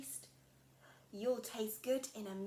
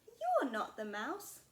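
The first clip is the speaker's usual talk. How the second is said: louder, slow accusing little monster; bold Gruffalo child; 4 semitones higher, 9 dB louder, slower than usual. Acted. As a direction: tell the snake off boldly. Child confronts snake.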